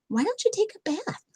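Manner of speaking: high fluffy bear voice; Big Fluffy Bear. A narrator's reading. Bear asking her smelly friend, high and sweet. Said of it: "said Big Fluffy Bear".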